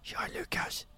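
hushed, secretive whisper imitating a friend; imitated whisper. Friend answering Lukas while girlfriend sleeps, imitated whisper. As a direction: whisper it as if someone sleeps nearby. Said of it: "han pratar ju så här".

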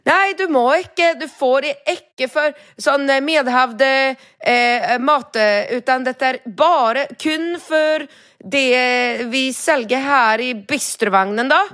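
high, slow, fretful insisting; hysterical clerk. Retold or imitated. Bistro clerk lecturing about outside food, hammed-up hysterical. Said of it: "ett småhysteriskt".

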